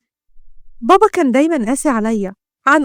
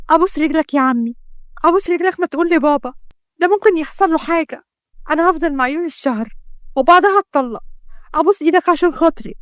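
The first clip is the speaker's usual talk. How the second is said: a slightly raised, imploring voice; pleading; 3 semitones higher than usual. Acted. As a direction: beg an elder for mercy. Begging the uncle to keep secret.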